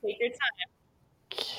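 slow, encouraging whisper; whispered aside. Real, not acted. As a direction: whisper it slowly so he can think. Host lets thinking guest take time.

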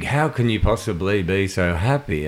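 mildly intrigued, retold; lightly acted curiosity; intrigued question. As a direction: ask with a touch of wonder. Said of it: "like, an intrigue".

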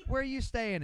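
high-pitched imitation of a girl; girl calling out. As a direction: pitch it up as a woman calling over. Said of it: "she goes".

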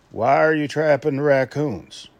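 slow, light Southern drawl on the question; southern accent. Retold or imitated. Trapper mimics an Alabama trapper in a Southern accent. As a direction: ask it like a puzzled Southern trapper. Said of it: "Yes, that was my southern accent".

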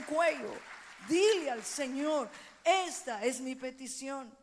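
loud, rising preacher's call; fiery preaching. Acted. Pastor urging her church to pray loudly, fiery preaching. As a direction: urge the crowd to cry out to God.

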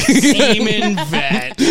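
laughing. Real, not acted. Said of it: "Fuck. Get that on a t-shirt".

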